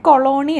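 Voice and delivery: "കൊളോണി" said ko-LO-ni, with long middle o; tentative pronunciation. Shown as a demonstration. Teacher showing students a Geneva place name, "കൊളോണി" pronounced ko-lo-ni. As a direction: say "കൊളോണി" in three syllables, ending in -ni. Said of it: "pronounce ചെയ്യുന്നത് ഇങ്ങനെയാണെന്ന്".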